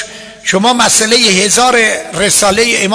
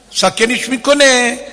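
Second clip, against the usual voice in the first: ordinary talk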